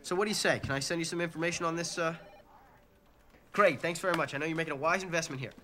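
nervous breakdown pitch; frantic. Acted. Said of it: "I sound a little frantic?".

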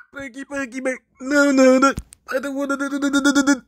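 high-pitched mock dismay; squeamish refusal. Real, not acted. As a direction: plead it away in a small high voice. Recoils from a disliked image.

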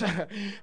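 low, quiet laugh; soft chuckle. Real, not acted. Preacher hesitant to prophesy to the church, soft chuckle. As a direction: chuckle softly under the sermon.

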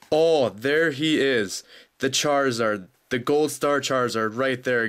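stunned joy at finding the rare card; real excited surprise. Real, not acted. Finds the Gold Star Charizard.

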